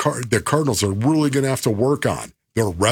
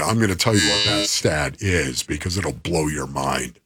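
lower, flat robot voice; 8 semitones lower than usual. Acted. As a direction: drop into a monotone robot. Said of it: "turned into robot voice".

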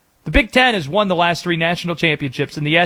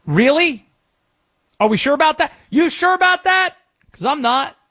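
sceptical; 9 semitones higher than usual. Real, not acted. Sceptical rhetorical challenge.

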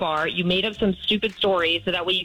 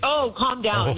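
higher-pitched mocking retort; sarcastic echo; 4 semitones higher, slower than usual. Real, not acted. Girlfriend to cheating boyfriend who says calm down, sarcastic. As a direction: throw the words back with scorn. Throws his words back at him.

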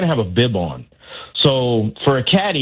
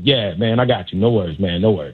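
playing it cool; 5 semitones lower than usual. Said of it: "I gotta be cool".

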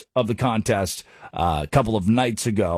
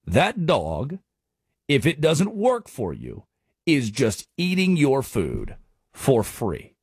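slow closing punchline; slower than usual. Shown as a demonstration. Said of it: "repeats the saying".

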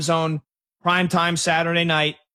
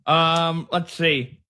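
talking around a pen in the mouth; slower than usual. Real, not acted. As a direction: speak with a pen between the teeth. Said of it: "I got my pen in my mouth".

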